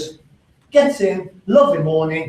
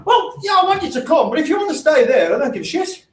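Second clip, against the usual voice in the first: heated retort; 8 semitones higher than usual. Retold or imitated. Husband's retold retort.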